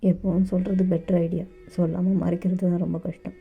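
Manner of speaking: put-on calm older lover. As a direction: soothe him like a child who got hurt. Dev reassures JK.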